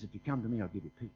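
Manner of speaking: low, very soft reassurance; gentle promise. Acted. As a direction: offer comfort in a hushed, deep voice. Quoting Christ's promise of peace.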